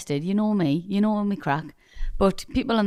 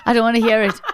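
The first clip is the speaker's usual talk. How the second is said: laughing protest; 2 semitones higher, 3 dB louder than usual. Real, not acted. Protesting while laughing at partner.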